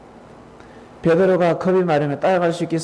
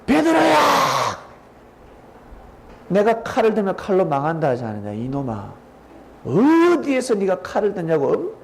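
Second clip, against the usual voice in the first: scolding shout; 5 semitones higher than usual. A narrator's reading. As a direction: yell his name, then scold hard. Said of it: "예수님이 소리를 꽥 지릅니다".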